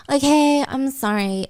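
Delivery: grudging apology, softening at the end; forced apology. Acted. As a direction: give in to a demanding sister. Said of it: "my sister making me apologize".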